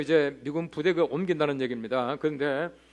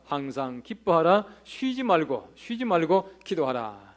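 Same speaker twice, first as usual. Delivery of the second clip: solemn scripture; slower than usual. Retold or imitated. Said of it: "바울은 말합니다".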